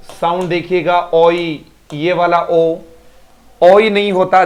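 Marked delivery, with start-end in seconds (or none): 3.6-4.4 ओ ई stressed as two vowels; sound emphasis. Shown as a demonstration. Teacher corrects pupils' vowel sound, stressing it. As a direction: lean on ओ ई. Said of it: "आगे से ओ ई कर देना".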